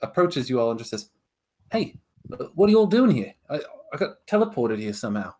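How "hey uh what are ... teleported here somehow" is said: a lost bunny asking who everyone is; confused bunny person. Acted. Game master voicing a teleported bunny, confused.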